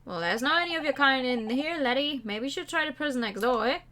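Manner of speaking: lightly Scottish prison governor; a hint of a gruff Scottish governor; Scottish accent. Governor greets the visiting lawyer in a light Scottish accent.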